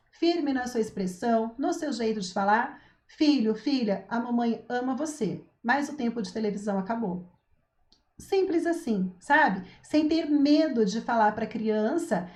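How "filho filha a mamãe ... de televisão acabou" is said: calm, steady, loving but final; firm but loving. Shown as a demonstration. Mother telling her child that TV time is over, firm and loving. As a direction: set the limit kindly and without wavering. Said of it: "Firme no seu tom de voz".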